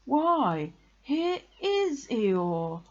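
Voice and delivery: high, drawn-out discovery; pleased surprise. A narrator's reading. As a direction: act delighted to find a friend here. Pooh greets Eeyore with feigned surprise.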